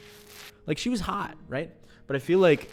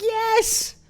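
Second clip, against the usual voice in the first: very high, loud mock squeal; emphatic Korean lady; 7 dB louder than usual. Customer retelling the return-desk lady's blunt answer, high excited squeal. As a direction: imitate her squealing agreement at the top of the voice. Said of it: "she's like".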